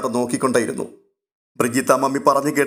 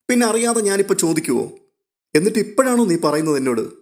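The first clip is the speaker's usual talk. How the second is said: higher, bubbly and teasing; spring the surprise playfully, pitched up; lightly voiced excited sister; eager younger sister; 4 semitones higher than usual. Babitha answers phone eagerly.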